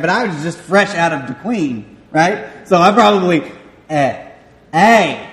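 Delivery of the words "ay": southern twang. Shown as a demonstration. Freshman mispronouncing the Italian vowel, southern twang. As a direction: stretch "eh" toward "ay" with a southern twang. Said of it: "Just such a southern twang".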